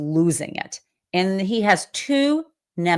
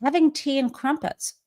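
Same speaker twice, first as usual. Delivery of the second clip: mocking repeat; 7 semitones higher than usual. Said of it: "I thought to myself".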